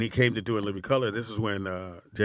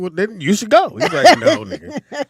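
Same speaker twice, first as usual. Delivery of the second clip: playful back-and-forth; 10 semitones higher, 6 dB louder than usual. Retold or imitated. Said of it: "I said".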